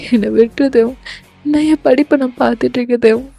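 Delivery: mildly upset acted heroine; understated weepy plea; tearful pleading. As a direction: beg him to let go, with a touch of tears. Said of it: "அப்படின்னு நீங்க அழறீங்க".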